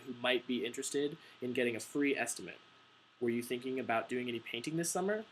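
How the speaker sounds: sales pitch with stress on key words like "free"; emphasized script read. Shown as a demonstration. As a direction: read the doorstep script, leaning on "free" in "free estimate". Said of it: "you know, emphasized".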